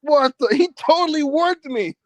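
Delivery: real surprise. Real, not acted. Guest crashes the show unannounced.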